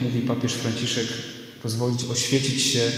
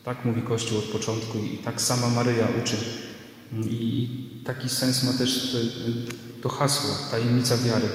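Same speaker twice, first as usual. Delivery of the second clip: sermon recorded with church echo; preaching in a reverberant church; church reverb; 4 dB quieter than usual. Real, not acted. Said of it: "nagrał się też pogłos z kościoła". (pogłos kościelny)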